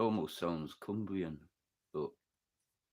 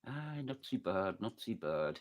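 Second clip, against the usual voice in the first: put-on old Melkridge village accent, pitched up; old Melkridge dialect; 8 semitones higher than usual. Melkridge local replying and offering a sandwich, high village dialect. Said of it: "proper old fucking language".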